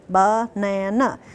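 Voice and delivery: "Banana" slowly split into beats; syllable-by-syllable banana. Shown as a demonstration. Teacher modelling with cubes, slow and chopped. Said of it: "how many syllables".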